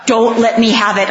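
a hint of a serious mother laying down the rule; imitating mom telling kids to hide the brownie; mock stern mom. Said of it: "she said".

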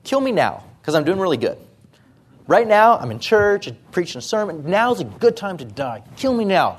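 lightly voiced, eager to die now, half-joking; a hint of a believer begging to be taken; mock eager believer. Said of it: "this is how I would talk".

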